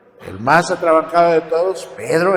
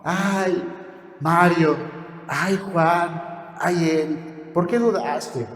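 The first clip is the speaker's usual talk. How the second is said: softer, tender and loving; a touch of doting tenderness; affectionate rebuke; 3 dB quieter, much slower than usual. Retold or imitated. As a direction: hug them close and chide gently. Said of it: "Con amor, con mucho cariñito".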